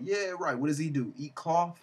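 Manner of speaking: sceptical, mocking questions; joking mockery. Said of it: "And we all joked about".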